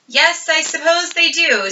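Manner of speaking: half listening, drifting off; vague. A narrator's reading. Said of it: "said Missus Arable vaguely".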